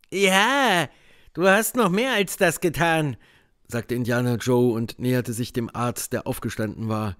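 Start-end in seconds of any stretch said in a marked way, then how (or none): 0.1-3.2 menacing man. A narrator's reading. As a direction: threaten him. Indian Joe's voice.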